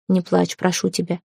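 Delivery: soft, tender plea; understated tender comfort. Acted. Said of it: "проговорил он".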